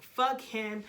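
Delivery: acting out bold defiance of both of them; fuck-you attitude. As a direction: spit out the first words, then settle into a threat. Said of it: "a fuck you attitude".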